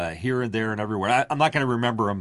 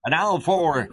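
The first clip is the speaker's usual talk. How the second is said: Wolfman Jack; 8 semitones higher than usual. Retold or imitated. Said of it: "Or Wolfman Jack".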